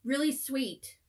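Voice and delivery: talking while chewing; words muffled by food; mouth full. Real, not acted. Seen 1: Left woman eats cookie from -3, cheeks full and chewing throughout.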